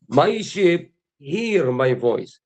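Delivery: very slow, every word drawn out; solemn slow recitation; slow emphatic scripture. Acted. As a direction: let each word of "My sheep hear my voice" land slowly. Scripture repeated slowly, drawn out.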